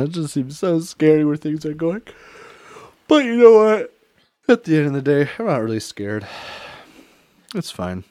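ordinary talk

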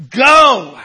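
go, thrown out with full force; preacher's shout. Real, not acted. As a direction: fire the word at the congregation. Preacher shouts the key word.

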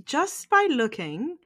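halting put-on English accent; shaky attempt at English accent. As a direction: pick out words carefully in mock English. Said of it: "that English accent you tried to pull off".

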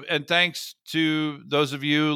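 said through a laugh. Real, not acted. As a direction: sign off while still laughing. Laughing while signing off.

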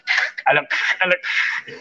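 raspy throat-clearing parody of Scouse; imitated Scouse throat noise. Shown as a demonstration. Host correcting his accent attempt, guttural mock Scouse noises. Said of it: "No, the Scouse is".

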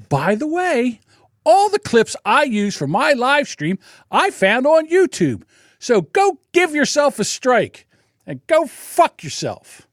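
defiant retort. Retold or imitated. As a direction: build from calm to taunting kiss-off. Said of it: "So I said".

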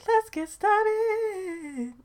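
very high, very slow sung imitation; mock-sung let's get started; imitating singer. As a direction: stretch it out like the singer. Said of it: "sings in the beginning and goes".

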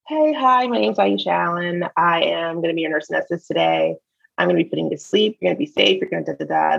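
bright, polished nurse greeting; upbeat, careful work voice; professional voice. Retold or imitated. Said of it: "it's called code switching".

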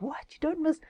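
you miss school?, slow and amazed; mock shocked question; incredulous. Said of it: "It's like".

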